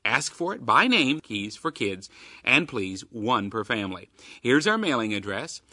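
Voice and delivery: upbeat radio promo read; chipper 1950s ad. Acted. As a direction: sell it like an old radio ad. Radio promo read for Keys for Kids.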